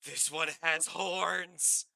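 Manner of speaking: very slow, high, loud delight; thrilled squeal. Acted. Fairy girl squealing on spotting horns. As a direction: stretch it out, thrilled. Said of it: "She goes".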